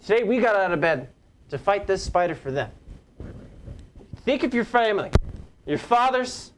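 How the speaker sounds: rally the troops from a soapbox; general speech. Acted. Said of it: "I'm gonna draw my sword and be like".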